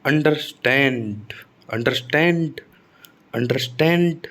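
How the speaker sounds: अंडरस्टैंड repeated deliberately, STAND stressed each time. Shown as a demonstration. Teacher drilling the verb, weight on the second part. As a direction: hit the स्टैंड of अंडरस्टैंड. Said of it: "तो स्टैंड पर".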